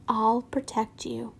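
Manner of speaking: soft slow promise; tender. Acted. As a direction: say it gently, reassuringly.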